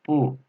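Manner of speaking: "Bu" with a falling fourth tone. Shown as a demonstration. Teacher reading tones aloud, "Bu" in fourth tone. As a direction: let "Bu" fall quickly in pitch. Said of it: "fourth tone".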